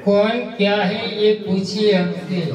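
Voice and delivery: measured Urdu couplet recitation; poetry recitation. Acted. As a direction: recite each verse with deliberate phrasing. (शायरी पढ़ने का ठहरा हुआ अंदाज़)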